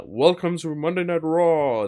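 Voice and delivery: loud, high, drawn-out show announcer; badly faked wrestling announcer's big welcome; terrible Vince McMahon. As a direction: belt out a slow, hammed-up show opening. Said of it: "That's a terrible Vince".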